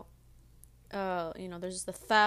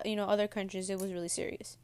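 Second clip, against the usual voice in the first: munching cereal while talking; chewing between words; mouth full. Real, not acted. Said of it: "keep eating my Cheerios".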